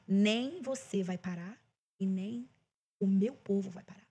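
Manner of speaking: low, soft, measured promise; voice of God. Retold or imitated. Singer retells God's answer to her prayers, hushed and low. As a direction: quote God quietly, lingering on the opening words. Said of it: "Aí Deus falou pra mim".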